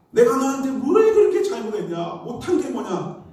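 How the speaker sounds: hammed-up aggrieved yell; imitated yelling father. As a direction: belt it out like the angry dad next door. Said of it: "고함고함을 막 지르더라".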